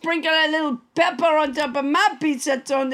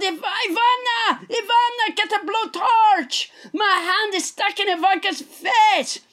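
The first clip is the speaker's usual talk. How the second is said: retold yell; 5 semitones higher than usual. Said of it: "I yelled".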